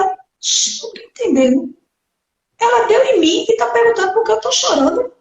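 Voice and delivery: put-on high, fast, indignant little girl; child's inner protest. Little girl protesting her mother's question, high indignant. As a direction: blurt a child's confused outrage.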